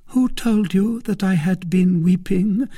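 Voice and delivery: high, loud, indignant lady; Milady, proud challenge. A narrator's reading. Lady questioned about her tears, high and haughty. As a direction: challenge him for suggesting you cried.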